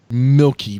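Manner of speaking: ordinary talk, nothing marked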